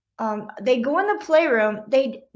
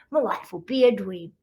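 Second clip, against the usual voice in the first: ordinary delivery, nothing marked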